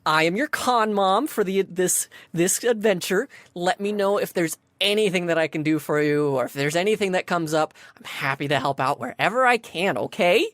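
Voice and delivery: lightly voiced friendly con mom; perky sphinx greeter. Con mom offering help to cosplayers, lightly perky. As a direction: introduce yourself with a touch of chirpy helpfulness. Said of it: "goes back to a perky self".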